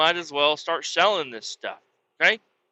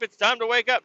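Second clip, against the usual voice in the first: put-on high, loud drunk calling out; drunk wake-up call; 9 semitones higher, 3 dB louder, faster than usual. Drunk at the campsite waking his family, loud high calling out. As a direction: rouse the whole campsite.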